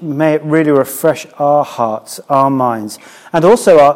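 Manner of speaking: slow, earnest spoken prayer; hushed reverent prayer voice. Acted. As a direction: pray it out slowly to God. Leads the congregation in prayer.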